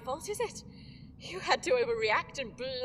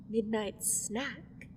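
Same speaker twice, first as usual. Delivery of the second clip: slowly savoured, mocking name; slow, toying villain taunt; teasing drawl; much slower than usual. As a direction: relish the cruel nickname. Villain teases her pets.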